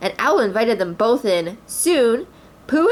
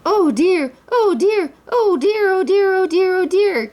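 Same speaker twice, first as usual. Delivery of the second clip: high repeated panicked squeak; frightened cry; 11 semitones higher, 4 dB louder, slower than usual. A narrator's reading. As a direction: wail it over and over. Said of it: "cried Piglet".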